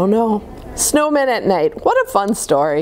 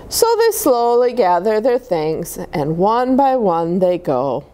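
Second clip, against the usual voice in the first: put-on gentle read-aloud voice for children; storybook reading; slower than usual. A narrator's reading. Reading a snowman picture book to kids, storytelling voice. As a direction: read it like bedtime story time.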